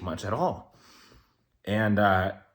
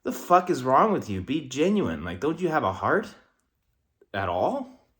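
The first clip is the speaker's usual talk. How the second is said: higher, louder, disgusted demand; exasperated outburst; 5 semitones higher, 4 dB louder than usual. Real, not acted. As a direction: snap at them to be genuine. Rant about fake people.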